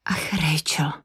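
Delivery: hushed, near-whispered blurt. A narrator's reading. Katy reacting to Rachel's answer to the detective, blurted in a hush. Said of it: "vyhrkla Katy".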